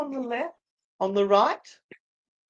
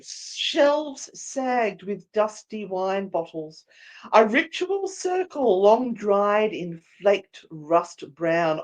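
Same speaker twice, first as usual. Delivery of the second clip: slow, measured scene-setting voice; story narration; 3 dB louder, slower than usual. A narrator's reading. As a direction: paint the cellar slowly for the players. Game master's scene setting.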